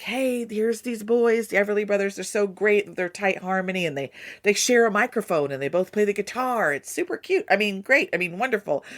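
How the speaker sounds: a hint of a proud father selling his boys; Dad pitching the band. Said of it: "And he's like".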